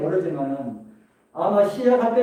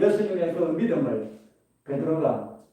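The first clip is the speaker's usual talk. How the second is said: ordinary delivery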